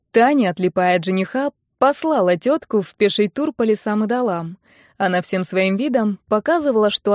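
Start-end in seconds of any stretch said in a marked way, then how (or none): none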